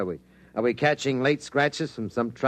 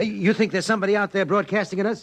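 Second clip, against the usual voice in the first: astonished question; 9 semitones higher, faster than usual. Acted. Reporter grasps alien broadcast idea.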